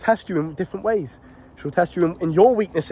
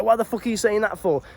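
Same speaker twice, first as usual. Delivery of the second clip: a raised, offended snap, half-acted; mock angry outburst; 5 semitones higher than usual. A man snapping at his girl over a jab, mock angry. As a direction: play the touchy guy who takes offence. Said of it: "or you get emotional".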